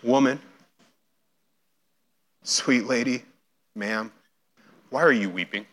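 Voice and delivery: cradle each word; affectionate tenderness. Shown as a demonstration. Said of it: "it's an affectionate term".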